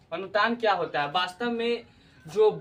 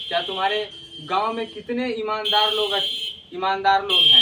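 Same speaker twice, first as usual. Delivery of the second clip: louder, rising to a punchy question on ईमानदार लोग; emphatic question; 5 dB louder than usual. Shown as a demonstration. Guru asking a pupil about his village, louder and emphatic. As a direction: press the teacher's question hard. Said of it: "इस प्रकार का question जो question marks वाला आता है".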